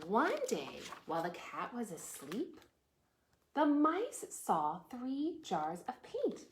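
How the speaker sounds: storytime reading with drawn-out key words; picture-book narration. Acted. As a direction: read to small children, phrase by phrase. Reads picture book aloud.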